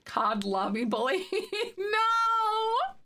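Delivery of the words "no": laughing out a high no. Real, not acted. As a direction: burst out laughing in disbelief. Reacting to funny chat message.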